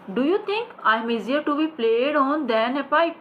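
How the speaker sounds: high, very slow indignant line; hammed-up stage actor; dramatic stage delivery. Shown as a demonstration. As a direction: declaim it like a wounded actor. Teacher acts play line.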